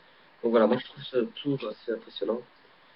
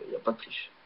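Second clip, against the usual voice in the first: whispered aside; 7 dB quieter, faster than usual. Real, not acted. Aside while showing the cards.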